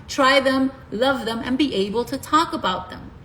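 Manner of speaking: retainers in mouth; talking with retainers in. Real, not acted. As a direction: speak around dental retainers. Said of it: "Sorry, guys, I have my retainers on".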